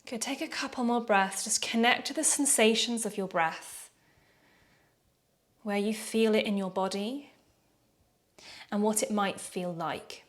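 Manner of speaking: calm yoga breath guidance with long pauses; guided breathing meditation. Real, not acted. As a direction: gently lead them through noticing the breath, leaving room to breathe.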